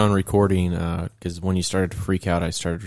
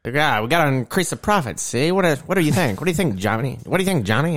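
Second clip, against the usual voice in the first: hammed-up gangster boss, pitched up; old-timey gangster; 4 semitones higher than usual. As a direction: play a movie mobster pitching a scheme. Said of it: "the old-timey gangsters".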